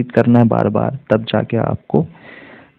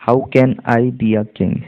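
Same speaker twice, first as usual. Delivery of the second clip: slow but joined-up model reading; read together; slower than usual. Shown as a demonstration. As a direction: link the words into one careful sentence. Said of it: "अब इसको हम एक साथ पढ़ेंगे".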